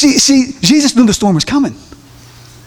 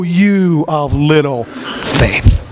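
Jesus speaking, slow and low; Jesus rebuking; 9 semitones lower, much slower than usual. Retold or imitated. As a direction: lower and slow it like a gentle reproach.

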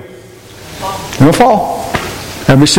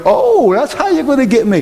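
playfully knowing, pitched up at the start; mock realization; 6 semitones higher than usual. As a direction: act out spotting the trick. Acted sudden catching-on to Satan.

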